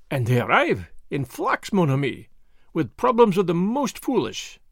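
lightly voiced Belgian detective, smug; a hint of a self-satisfied foreign sleuth; Poirot voice. Poirot speaks.

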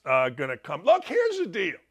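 ordinary talk

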